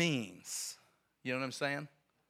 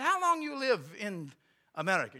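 broken English; 8 semitones higher, 5 dB louder than usual. Retold or imitated. Visitor asking clerk about her life, broken English accent. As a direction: imitate a foreigner's halting English. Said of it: "he spoke real broken English".

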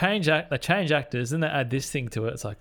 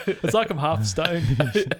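half-stoned voice; 2 semitones higher, much slower than usual. Retold or imitated. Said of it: "I love the impersonation".

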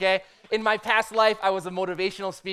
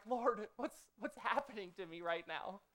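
quiet panic; 10 dB quieter than usual. Retold or imitated. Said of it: "And I'm like".

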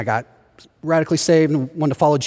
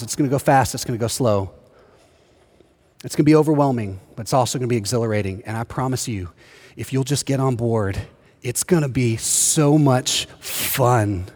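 reassuring promise; 5 semitones lower than usual. Real, not acted. Reassuring congregation, softly.

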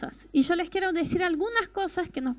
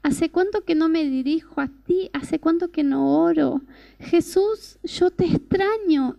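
retold tearful prayer; 5 dB louder than usual. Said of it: "empezó a llorar, llorar y decía".

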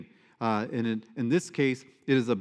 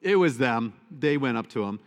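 emphatic denial; 4 dB louder than usual. Retold or imitated. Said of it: "But Mark is like".

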